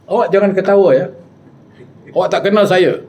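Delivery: high, mock-stern warning; angry. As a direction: act out an offended spirit scolding. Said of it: "dia marah".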